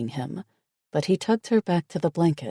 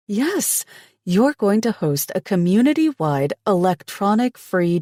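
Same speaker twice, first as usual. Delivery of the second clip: high, loud, eager pitching; excited; 6 semitones higher, 4 dB louder than usual. A narrator's reading. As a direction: sell the plan with gusto. She pitches her plan eagerly.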